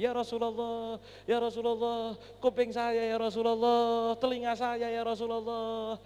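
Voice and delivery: drawn-out, plaintive mock wail; imitated tearful wailing. Injured companion pleads to the Prophet about his ear, imitated wailing. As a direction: wail each plea slowly, stretching the endings. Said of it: "Nangis Sayyidina Abdullah bin Mas'ud".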